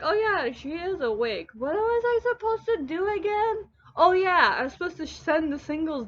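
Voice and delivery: high, airy voice of a forgetful brain; ditzy brain voice. Pretend. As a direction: play the brain as a scatterbrain who forgot its job. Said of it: "your brain is like".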